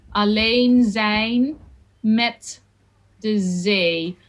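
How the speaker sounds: Alleen and zee with a long drawn ee; long ee vowel. Shown as a demonstration. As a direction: hold the ee in zee. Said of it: "double E, it's a very long sound".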